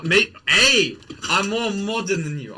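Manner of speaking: mock-outraged comeback; indignant protest. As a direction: fake offense, puff up.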